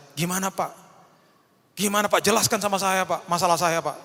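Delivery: pleading congregant. Retold or imitated.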